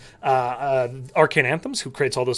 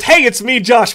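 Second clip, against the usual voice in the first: louder, higher announcer voice; disembodied announcer voice; 7 semitones higher, 7 dB louder, slower than usual. Retold or imitated. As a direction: announce it from nowhere. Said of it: "but it's Parker's voice".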